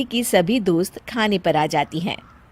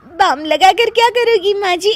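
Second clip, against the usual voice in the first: high giggly words that keep breaking into laughter; can't stop laughing while offering help; 7 semitones higher, 3 dB louder than usual. Acted. Daughter-in-law to aching mother-in-law, laughing helplessly.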